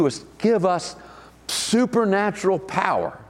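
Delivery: talking around a wad of gum; chewing gum. Real, not acted. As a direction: speak while chewing gum. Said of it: "I've got gum in my mouth".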